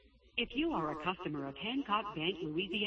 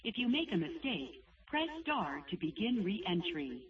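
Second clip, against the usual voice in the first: phone menu voice; 2 semitones higher than usual. Real, not acted. Automated bank phone menu.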